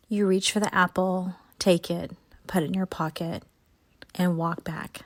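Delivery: calm, steady guided imagery voice; guided visualization. Acted. Host guiding listeners through imagined orchard, guided visualization. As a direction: lead them gently up the hill in their mind.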